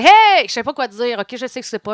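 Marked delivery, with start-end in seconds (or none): 0.1-0.5 fake surprise. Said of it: "je fais".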